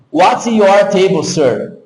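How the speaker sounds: "What's your table, sir?" with a crisp TS in WHAT'S, slowly; read as written. Shown as a demonstration. Teacher reading out the written question, word by word as spelt. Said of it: "Tô lendo o que tá escrito".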